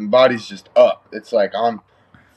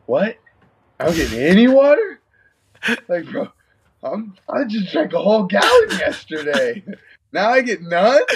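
mock outraged whine; 8 semitones higher than usual. Cutting fighter whining that he gets no water, outraged. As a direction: protest like a cheated kid.

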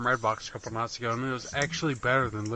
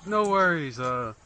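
lightly voiced cabbie, pitched up; Russian cab driver; 6 semitones higher, 8 dB louder than usual. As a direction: play a grateful driver, a bit higher. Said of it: "the cab driver's like".

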